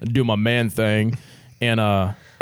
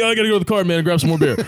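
fake casual; 6 semitones higher, much faster than usual. His casual cover story.

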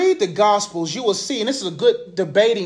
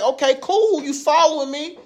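higher, wary asking; wary and a bit amused; lightly voiced puzzled Jesus; mock suspicious; 7 semitones higher, slower than usual. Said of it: "he's like".

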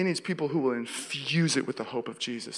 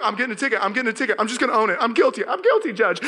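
mock panicked confession; 5 semitones higher, 3 dB louder, faster than usual. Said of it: "I'm literally freaking out that badly".

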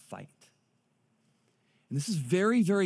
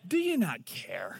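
quieter slow repeat; slower than usual. Retold or imitated. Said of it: "that's never a good idea to say to God".

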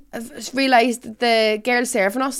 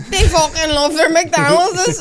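laughing quote; 6 semitones higher, 5 dB louder, slower than usual. Retold or imitated. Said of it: "Imagine them going back to China going".

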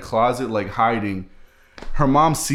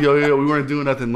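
panicked plea; 4 semitones higher, 3 dB louder, faster than usual. Retold or imitated. Caught in closet, pleading to mom.

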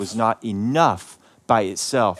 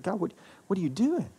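a hushed, higher, pleading question; silent anguished plea; 7 semitones higher, 7 dB quieter than usual. Retold or imitated. Father smiling at family while inwardly begging God, hushed. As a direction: ask God quietly while forcing a smile outward.

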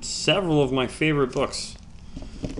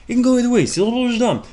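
exasperated rant; 11 semitones higher, 6 dB louder, faster than usual. Real, not acted.

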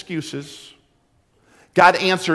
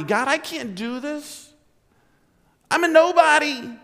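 inferior; 9 semitones higher than usual. Retold or imitated. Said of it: "this feeling of inferiority".

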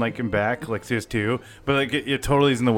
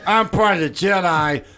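high, goofy clumsy-Jedi voice; silly character voice through a laugh; Narf; 6 semitones higher than usual. Acted. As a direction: play a clumsy, dim Jedi, pitched up. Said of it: "that was an impression of Narf".

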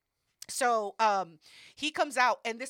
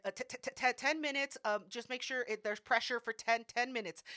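stuttering. Retold or imitated. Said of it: "he has a speech impediment".

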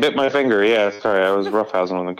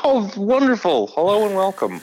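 phone voice; 10 semitones higher than usual. Shown as a demonstration. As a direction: put on the polished customer-service voice. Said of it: "This is my phone voice".

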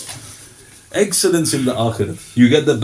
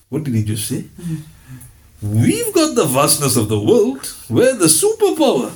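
mock Persian courtiers. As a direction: sneer as proud imperial courtiers. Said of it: "'Cause they're thinking".

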